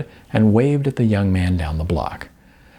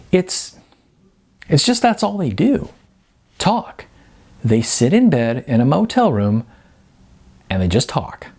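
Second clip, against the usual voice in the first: Jasmine's voice; 3 semitones higher than usual. Acted. Jasmine's higher character voice.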